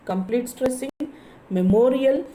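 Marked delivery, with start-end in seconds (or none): 1.5-2.2 memorial with MORIAL louder and higher; stress on MORIAL. Shown as a demonstration. Teacher showing students the stress, memorial with MORIAL punched. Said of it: "memorial is stressing".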